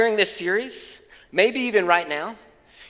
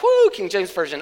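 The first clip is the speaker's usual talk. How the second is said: mock excitement; 3 dB louder than usual. Preacher mimics congregants who love King James, mock excited. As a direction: cheer like an eager fan.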